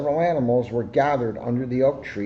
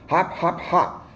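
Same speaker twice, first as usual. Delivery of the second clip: encouraging hops; 5 semitones higher, slower than usual. A narrator's reading. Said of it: "called Rabbit encouragingly".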